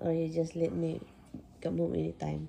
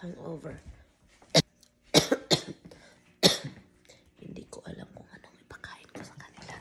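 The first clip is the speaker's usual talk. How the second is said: hungover; 5 dB quieter than usual. Real, not acted. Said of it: "Na-hangover ako guys".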